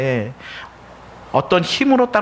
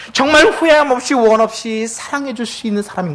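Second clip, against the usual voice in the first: fervent preacher's cry on 정말 후회함 없이; impassioned cry; 5 semitones higher than usual. Real, not acted. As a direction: push 정말 up hard, pleading with the church. Repeated exhortation, stronger take.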